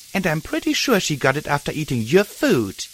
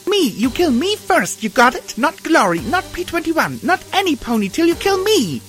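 screaming; 4 dB louder than usual. Acted. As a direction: scream it while smashing down. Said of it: "I screamed as I brought it down".

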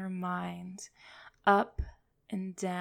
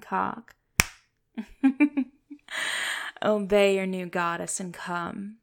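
loud, urgent commands; commanding; 7 dB louder than usual. Acted. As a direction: push him over the edge. Climax command.

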